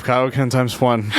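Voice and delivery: slow muttered Kaioken chant; anime power-up mumble. Retold or imitated. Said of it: "randomly mumble to myself".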